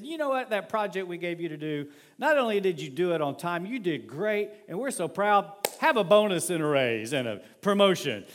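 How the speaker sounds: excited boss praise. Retold or imitated. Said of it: "the boss came in and said".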